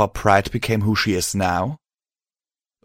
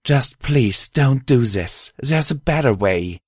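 higher-pitched, pleading mare; pleading alicorn mare; 5 semitones higher than usual. Acted. Mare urging her friend toward a better way, pleading. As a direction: beg him in the mare's raised voice.

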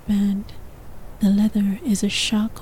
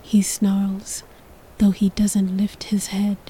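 whispered narration. A narrator's reading. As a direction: whisper the story close to the mic. Whispered throughout.

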